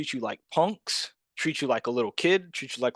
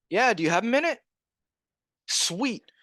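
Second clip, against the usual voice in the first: high, upbeat sales pitch; chirpy cold-caller, pitched well up; high-energy phone voice; 8 semitones higher than usual. Shown as a demonstration. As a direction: keep the enthusiasm up on the call. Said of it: "That's literally how I sound".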